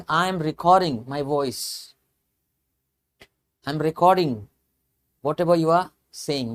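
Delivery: very slow, every word spelled out; slow example sentence for learners; slow, deliberate English; slow clear demo. Shown as a demonstration. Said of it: "you are pronouncing".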